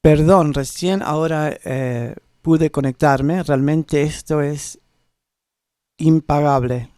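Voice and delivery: halting read-aloud Spanish; reading Spanish off the screen, carefully; reading foreign language. Shown as a demonstration. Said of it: "I'm gonna try to read it in Spanish".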